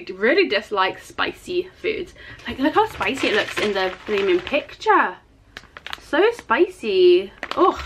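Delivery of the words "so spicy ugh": slow, drawn-out dread. Real, not acted. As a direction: stretch it out, dreading the heat. Dreading spicy noodles.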